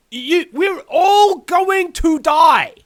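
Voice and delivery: loud dire warning. Real, not acted. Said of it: "I'm very serious when I say".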